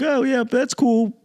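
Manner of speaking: mock smug hometown pride; smug Boston transplant. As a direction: brush LA off like a proud Bostonian. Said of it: "I was like".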